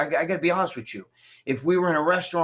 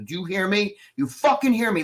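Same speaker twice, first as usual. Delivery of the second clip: acted demand, rising higher as it repeats; retold angry warning; 4 semitones higher than usual. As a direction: press the threat home, building in pitch.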